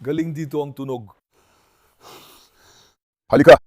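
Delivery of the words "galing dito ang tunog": lower, softer hushed voice; low hushed report of the noise. Real, not acted. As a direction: keep it down so nothing hears you. Sneaking toward the noise.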